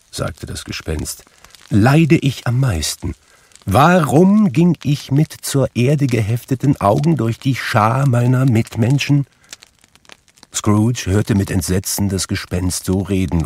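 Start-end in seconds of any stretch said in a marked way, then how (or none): 1.7-9.3 high, regretful spectral outpouring; raised, anguished ghost voice; lamenting ghost. A narrator's reading. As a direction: reproach yourself as a suffering spirit. Narrator voices Marley's ghost.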